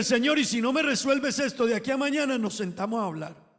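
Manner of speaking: lightly acted tough talk to God. Believer losing faith challenges the Lord, mock stern. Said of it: "como hablarle duro al Señor".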